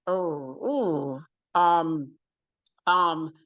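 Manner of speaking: a light hint of Oprah's voice, hesitating; Oprah impression. Interviewer asks for the accent, a lightly voiced Oprah. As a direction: ease into a mild Oprah voice. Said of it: "Can you do Oprah's accent?".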